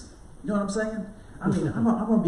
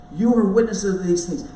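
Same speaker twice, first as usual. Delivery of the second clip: "You are witnesses of these things" said louder in one driving line; forceful repeat; 5 dB louder than usual. Shown as a demonstration. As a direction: punch "You" and drive straight through. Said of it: "I don't want you to miss this".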